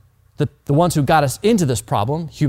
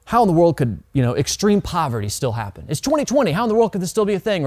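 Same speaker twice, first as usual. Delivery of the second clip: mock outrage; 3 semitones higher than usual. Preacher imitating angry people on Twitter, mock outrage. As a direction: throw up exasperated outrage. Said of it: "we say this thing when we get angry".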